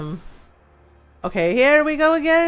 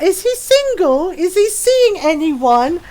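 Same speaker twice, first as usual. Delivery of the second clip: higher, drawn-out mock coy question; imitated flirty interest; 5 semitones higher, slower than usual. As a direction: put on a friend's eager flirting. Friend flirtatiously asking about dad.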